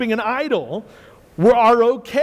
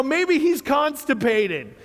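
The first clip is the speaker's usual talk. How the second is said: laughing mockery; 4 semitones higher, 3 dB quieter, slower than usual. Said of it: "He's saying".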